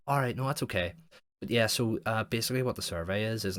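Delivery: pushing on cheerfully despite a no; mock pushy caller. Imitating the college survey guy on the phone, upbeat and pushy.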